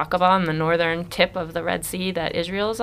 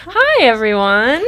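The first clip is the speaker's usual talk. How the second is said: stifled giggles; 7 semitones higher, 7 dB louder, slower than usual. Real, not acted. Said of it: "She's trying not to giggle".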